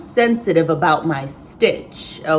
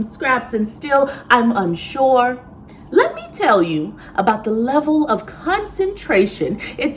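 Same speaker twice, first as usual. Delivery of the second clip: rhythmic spoken-word delivery, leaning on the rhymes; slam poetry. Acted. Seamstress performing a button poem for viewers, spoken-word slam style. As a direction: perform it as a slam poem, with measured phrases and punched words.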